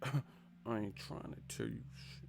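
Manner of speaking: slow, hushed movie threat, imitated; menacing mutter. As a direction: barely let the threat out. Acting out Juice movie confrontation.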